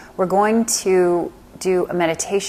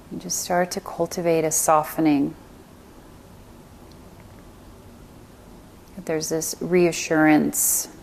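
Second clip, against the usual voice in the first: calm meditation guide with long pauses; guided meditation. Acted. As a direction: guide them gently into stillness, leaving space between phrases.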